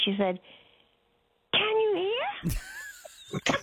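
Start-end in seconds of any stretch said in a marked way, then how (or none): 1.5-3.5 put-on high, very slow, drawn-out child's voice; mock toddler yell. Toddler asking blind Nana if she can hear, high and drawn out. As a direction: stretch each word like a toddler shouting. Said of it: "she yelled at me".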